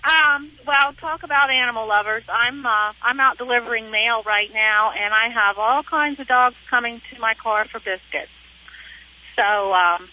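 heard through a phone line; over the phone. Real, not acted. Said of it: "I'm talking to you on the phone".

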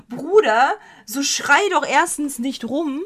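mock-exasperated telling-off; exasperated retort. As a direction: scold the singer in mock outrage.

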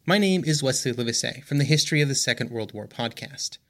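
ordinary talk, nothing marked

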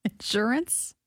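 "Insurance" with both syllables evenly stressed; balanced stress. Shown as a demonstration. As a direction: give "Insurance" equal weight on IN and SUR, a light questioning rise. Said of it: "Say it again".

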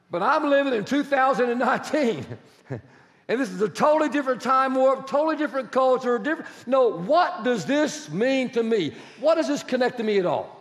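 voicing a sceptical listener, animated protest; mock objection. Preacher playing a congregant doubting relevance, mock protest. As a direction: push back as the puzzled churchgoer. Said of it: "Now, you're sitting here going".

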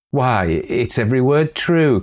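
put-on a touch of a vehement girl; vehement cry. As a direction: insist with a lifted voice. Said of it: "cries the girl vehemently".

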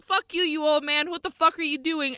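rapid-fire, playfully indignant; retold angry yell. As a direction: imitate neighbors telling off an old man. Mullets yell at old man.

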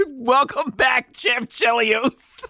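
slow, drawn-out mock proclamation; all-caps announcement. Co-host reading out an all-caps text, mock-grand and slow. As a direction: stretch each word like a mock headline. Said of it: "you texted me in all caps".

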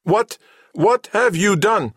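high, slow mechanical voice; squeaky machine question that conveys no tension; tensionless robot. A narrator's reading. Samhet asks what Cabal has done, high robot voice. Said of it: "Samhet's voice purveyed no tension".

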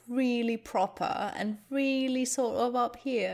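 posh British accent. Shown as a demonstration. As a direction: lightly imitate proper, posh British speech. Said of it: "speaking in really posh British".

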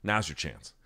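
hushed voice in the head; low, softened prompt to oneself, as if imagined; quiet nudge from within; inner voice. Retold or imitated. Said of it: "Some voice in my head just goes".

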